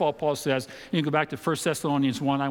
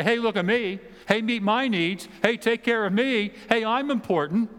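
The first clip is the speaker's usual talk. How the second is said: mock self-important; 7 semitones higher than usual. Mock self-centred believer.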